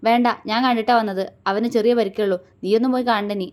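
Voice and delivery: firm, serious refusal. Acted. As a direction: shut it down firmly. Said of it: "ഗൗരവത്തോടെ പറഞ്ഞു".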